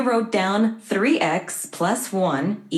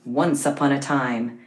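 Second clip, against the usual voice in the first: dramatic storytelling; 3 semitones lower than usual. Acted. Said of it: "Let's add some drama".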